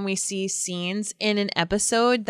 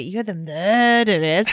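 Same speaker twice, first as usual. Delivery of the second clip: mimicked English accent. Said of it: "The way that they said it".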